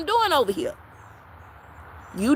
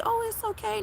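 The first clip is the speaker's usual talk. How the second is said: fake reassurance; 11 semitones higher, 7 dB quieter than usual. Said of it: "lie to you and say".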